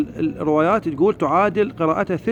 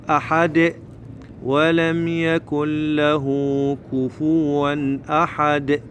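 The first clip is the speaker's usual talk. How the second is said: slow, even chant with long vowels; Quran recitation; much slower than usual. Shown as a demonstration. Teacher models the corrected verse, slow recitation. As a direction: recite slowly, bouncing the final dal.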